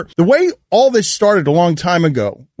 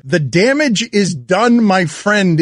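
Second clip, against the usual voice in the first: condescending; slower than usual. Retold or imitated. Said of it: "most condescending things I've ever heard".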